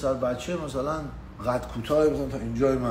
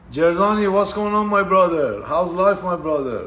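calling out a friend, loud and upbeat; loud greeting; 5 dB louder, much slower than usual. Real, not acted. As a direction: hail him like a buddy across the room. Greeting friend loudly on camera.

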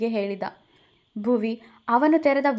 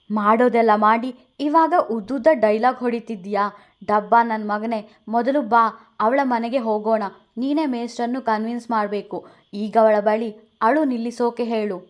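louder, scolding friend; 4 dB louder than usual. Acted. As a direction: tell him off, then order him. Vinay scolding. (ಜೋರಾಗಿ ಬಯ್ಯುವ ಗೆಳೆಯ)

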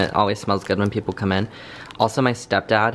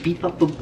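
silly sound effects; 7 semitones higher than usual. Shown as a demonstration. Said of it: "Do you see how I just go".

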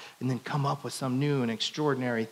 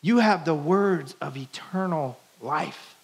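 Peter's declaration; 3 semitones higher, 4 dB louder, slower than usual. Pretend. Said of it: "And he says".

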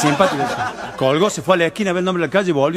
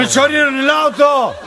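slow, high holler, stretched out; hammed-up drunken outcry; drunken yelling; 8 semitones higher, 4 dB louder, slower than usual. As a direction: bellow it like a drunk crying for help. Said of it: "estaba a los gritos".

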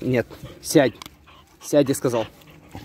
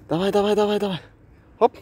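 talking to a dog; 6 semitones higher, much faster than usual. Real, not acted. Playing fetch with dog Olaf.

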